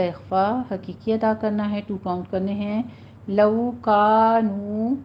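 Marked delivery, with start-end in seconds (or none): 3.3-4.9 لَوْ كَانُوا slow and louder with long vowels; louder recitation. Shown as a demonstration. Teacher models the verse words, slow louder recitation. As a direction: give لَوْ كَانُوا its full long madd, loudly. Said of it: "کانو نہیں کہنا".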